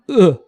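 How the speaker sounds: gag. Acted. Gags at the thought of puking.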